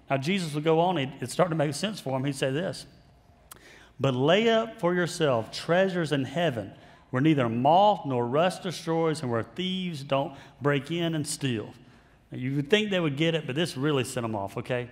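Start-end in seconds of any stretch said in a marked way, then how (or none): 4.0-11.7 slow, solemn Bible reading; scripture reading. Acted. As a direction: read the words of Jesus slowly, with weight.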